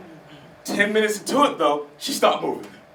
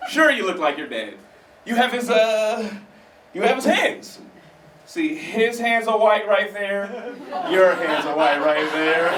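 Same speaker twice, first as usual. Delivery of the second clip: slow, higher mock-soothing mother; lightly voiced mom, sweetly insisting; reassuring mom; 4 semitones higher, slower than usual. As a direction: coax him slowly like a fibbing mom. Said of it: "my mom's like".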